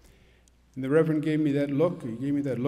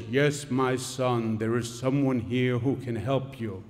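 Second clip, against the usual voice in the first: booming voice of God; 6 semitones lower than usual. Acted. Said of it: "a loud, booming voice".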